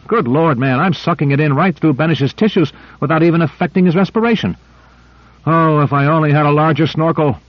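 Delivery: high, gleeful, youthful eagerness; bubbling over with delight; excited. Acted. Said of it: "gay and excited as a youngster".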